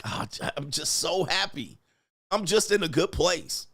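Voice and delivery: lightly gushing contentment; mock blissful, rubbing it in; showy happiness. Man telling annoyed partner he's happy, mock blissful. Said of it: "You're like".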